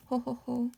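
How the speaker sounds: dainty ho ho ho; ladylike laugh. Shown as a demonstration. Teacher explaining ladies' laugh, dainty ho-ho. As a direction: laugh like a lady. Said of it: "Lady sound".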